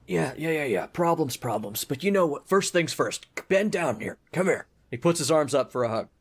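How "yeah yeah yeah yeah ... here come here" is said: put-on friendly but gruff old dwarf; Priest Deno. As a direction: grumble like a busy, kindly old dwarf. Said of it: "Then he says".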